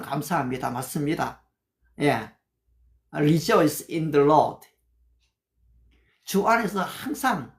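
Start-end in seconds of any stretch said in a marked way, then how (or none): 3.1-4.7 slow, careful English scripture; slow memorized Bible English; memorized verse recital. Shown as a demonstration. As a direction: say each word deliberately, recited from memory. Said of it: "제가 이렇게 영어를 할 수 있는 거는요".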